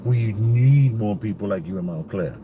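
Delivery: mildly desperate plea, leaning on NEED; retold desperation. Shopper pleading with a stranger who defied masks, mildly desperate. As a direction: imitate his understated desperation, stretching "need". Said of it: "he had this desperation in his voice".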